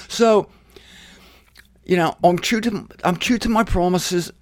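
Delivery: God speaking to Israel, playfully grand; God character voice. Acted. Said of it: "Where do you think this accent came from?".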